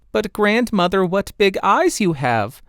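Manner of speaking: put-on a little girl puzzled at her granny; Redcap's voice. Redcap questions the wolf.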